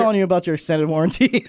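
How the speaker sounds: fast scammy warranty call; rushed scripted telemarketer. Pretend. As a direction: rattle off a scam call script. Mock warranty scam call.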